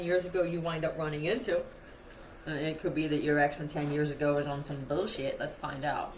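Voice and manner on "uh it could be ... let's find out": talking while chewing gum; words around a wad of gum. Real, not acted. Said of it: "I'm chewing gum".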